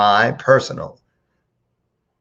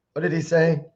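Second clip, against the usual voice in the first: ordinary talk, nothing marked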